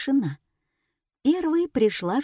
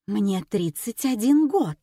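ordinary delivery

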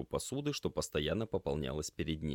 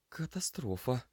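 muttered; 7 semitones higher than usual. Acted. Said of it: "пробормотала девушка".

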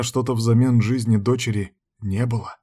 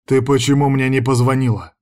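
growled; 3 semitones higher, 4 dB louder than usual. Acted. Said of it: "зарычал я".

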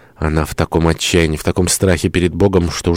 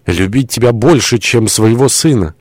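high, impassioned lament; anguished confession; 6 semitones higher, 3 dB louder than usual. Acted. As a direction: confess the sin in a raised, anguished voice. Anguished confession of sinful love.

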